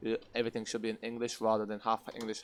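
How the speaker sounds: normal talking voice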